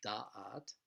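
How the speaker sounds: "da'at" with the stress on "da"; stress on first syllable. Shown as a demonstration. Teacher showing where the word is stressed, "DA-at" with first-syllable stress. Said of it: "stressed on the first syllable".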